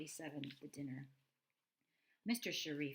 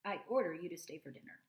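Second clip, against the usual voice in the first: louder, bossy mock order; very improper; 3 semitones higher, 7 dB louder than usual. Daughter ordering the robot to stay, loud and bossy. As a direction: boss the robot around cheekily. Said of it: "In a very improper voice".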